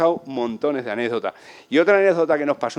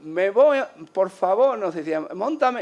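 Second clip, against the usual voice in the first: put-on eager boy pleading; 6 semitones higher than usual.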